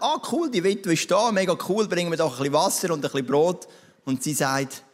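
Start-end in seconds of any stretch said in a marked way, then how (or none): 0.0-3.7 breezy, upbeat, higher; casual and chuffed, like meeting a friend; cheerful Elijah. Acted. Elijah greeting the widow he expected, breezy and high.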